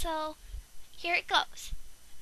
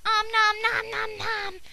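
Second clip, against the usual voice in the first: slow, higher cartoon chomping voice; hungry munching; 4 semitones higher, 4 dB louder, slower than usual. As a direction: chomp like a greedy cartoon monster. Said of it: "Rye's like".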